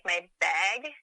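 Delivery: bag said with a long Canadian vowel, like bayg. Shown as a demonstration. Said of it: "people always give me shit when I say".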